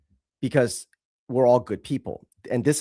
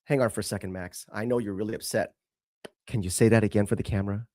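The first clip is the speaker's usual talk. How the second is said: mocking soft mother; 4 semitones lower, 5 dB quieter, faster than usual. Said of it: "You don't go".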